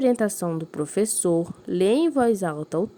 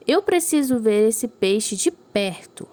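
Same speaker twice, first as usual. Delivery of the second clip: eager exclamation; 2 semitones higher, 4 dB louder, slower than usual. Acted. Reading story dialogue to class.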